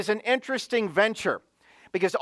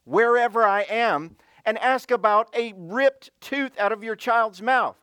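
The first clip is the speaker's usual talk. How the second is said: indignant tone; 2 semitones higher than usual. Retold or imitated. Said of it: "the tone of his voice was like".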